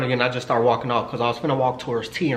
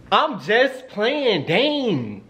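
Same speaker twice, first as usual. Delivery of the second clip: playful protest; 8 semitones higher, much slower than usual. Real, not acted. Backs off own raunchy joke.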